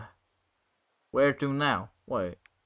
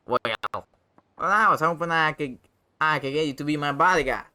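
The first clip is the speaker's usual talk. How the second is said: higher, pleading character voice; wheedling rascal; 3 semitones higher, 4 dB louder, faster than usual. Acted. Bacchus asks the hero to be bodyguard, wheedling. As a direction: wheedle it in a raised voice.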